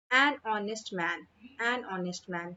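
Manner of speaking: "honest" with silent h, opening on अ; vowel-sound honest. Shown as a demonstration. Teacher showing an before a vowel sound, pronouncing "honest" without h. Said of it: "अ की sound आ रही है".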